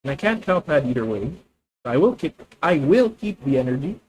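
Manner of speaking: a slight Filipino accent; lightly Filipino-accented English. Real, not acted. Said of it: "My Filipino accent is showing".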